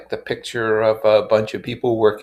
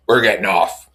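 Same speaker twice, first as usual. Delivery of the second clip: insistent Tom; 7 dB louder than usual. Acted. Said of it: "he insisted".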